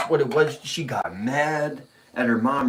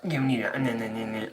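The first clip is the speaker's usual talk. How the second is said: hushed warning; 2 semitones lower, 6 dB quieter, slower than usual. Retold or imitated. Mom's hushed scolding retold.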